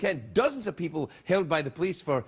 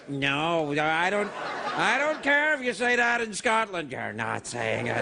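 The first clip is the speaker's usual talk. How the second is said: mocking a racist; 3 semitones lower, slower than usual. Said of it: "With your".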